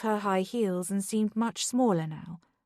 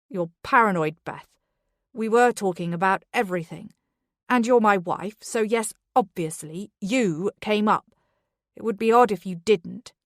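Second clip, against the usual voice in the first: angry; 5 dB louder than usual. Acted. Charlie hits back in quarrel.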